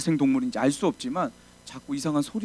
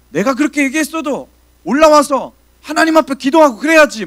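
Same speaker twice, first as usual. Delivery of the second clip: higher and louder, hammering rebuke; angry scolding; 11 semitones higher, 13 dB louder than usual. Retold or imitated. Senior pastor scolding an assistant on the phone: loud angry rebuke. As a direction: scold him like a furious old pastor.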